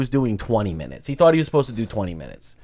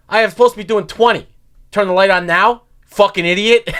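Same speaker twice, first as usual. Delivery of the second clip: higher-pitched imitation of an annoyed comic; mock indignant complaint aimed at the host; irritated heckler; 5 semitones higher, 3 dB louder than usual. Old-time comic objects to the light on stage, irritated. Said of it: "looking all irritated".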